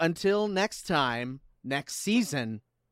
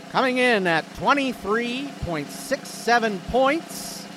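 announcer voice; 2 semitones higher than usual. Acted. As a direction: build suspense like a host. Announcing season winner.

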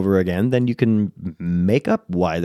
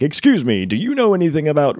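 lightly acted, higher-pitched inquiry; a slightly louder, higher player's question; player asking a townsperson; 6 semitones higher, 4 dB louder than usual.

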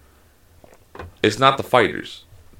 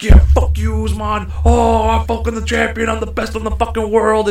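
mock victory crowing, very high; imitating a boasting fighter; 13 semitones higher than usual. Mocking a fighter's boasts after the knockout, high-pitched crowing. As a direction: crow like a fighter who just won, pitched way up. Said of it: "he was like".

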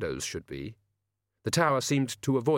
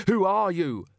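high-pitched, alarmed shout; shouted demand; 9 semitones higher, 4 dB louder than usual. A narrator's reading. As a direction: challenge the intruder in a raised, higher voice. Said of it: "he shouted".

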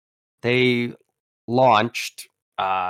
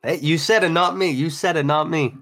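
teasing; 7 semitones higher than usual. Acted. Teasing denial.

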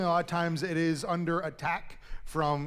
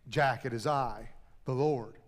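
voice of God; 4 semitones lower than usual. Acted. God answers Jack.

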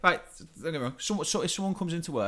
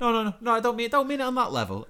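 higher, louder hasty backpedal; flustered, raised voice; flustered denial; 10 semitones higher, 4 dB louder than usual. Real, not acted. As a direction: quickly take it back, louder. Hastily backtracking on insult.

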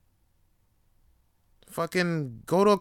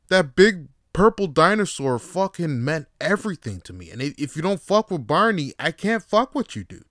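put-on Boston accent; 4 semitones higher, 4 dB louder than usual. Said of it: "how to do a proper Boston accent".

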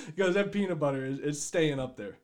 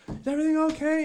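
parent calling; 10 semitones higher, faster than usual. Acted.

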